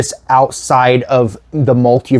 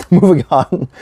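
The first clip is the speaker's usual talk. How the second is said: slower with a laugh; 3 semitones higher than usual. Real, not acted. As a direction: chuckle through it. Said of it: "Um, anyway".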